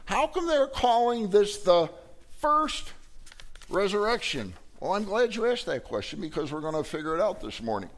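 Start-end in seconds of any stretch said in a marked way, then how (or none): 0.0-1.9 a lightly voiced puzzled listener, pitched higher; puzzled congregant. Preacher voicing a doubting listener, mildly puzzled. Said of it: "And you say". 2.4-4.5 "first" squeaked very high in mock disbelief, resurrection trailing; questioning first. Preacher mimicking a congregant's disbelieving question. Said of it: "And you say".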